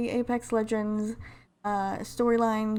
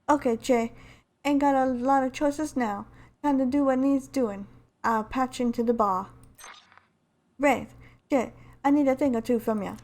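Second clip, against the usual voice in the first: lightly voiced game-heroine narrator; a hint of an amateur character accent; Lifeline impression. Lifeline telling how she goes looking for Yoko, lightly in character. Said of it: "trying to do my best Lifeline impression".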